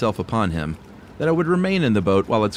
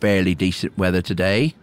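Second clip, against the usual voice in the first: put-on lower, gruff old recluse; creaky old hermit; 3 semitones lower than usual. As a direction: play the awkward old hermit. Voices the hermit.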